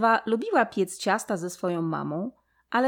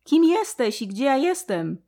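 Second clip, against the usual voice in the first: much higher and louder cry of shock; startled shout; 9 semitones higher, 9 dB louder, much slower than usual. A narrator's reading. Ewa waking before the great mouse, shouting in shock. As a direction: jolt awake and shout the question. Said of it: "krzyknęła Ewa".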